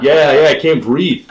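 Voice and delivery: high, loud, drawn-out retort through laughter; laughing, hammed-up call for air; mock desperate yell. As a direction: shout back in comic panic. Yelling back while swimming, out of breath.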